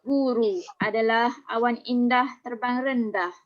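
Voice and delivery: dramatic poem declamation; poetry recital. Shown as a demonstration. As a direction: recite it like a stage poet. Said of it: "cikgu akan mula mendeklamasikan sajak".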